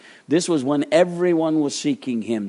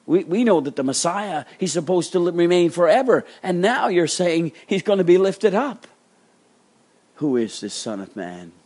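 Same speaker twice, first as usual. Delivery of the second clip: mildly acted baffled objection; a touch of exasperated disbelief; frustrated crowd; 6 semitones higher than usual. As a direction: climb higher as the protest builds. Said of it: "upset and frustrated at it".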